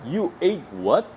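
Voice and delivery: very slow, ate stretched on a rising pitch; slow disbelieving question; drawn-out surprise. Shown as a demonstration. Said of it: "네 그걸 먹었다고?".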